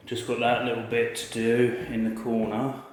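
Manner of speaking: winded, breathy after hard work; out of breath from laying floors. Real, not acted. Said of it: "If I sound out of breath".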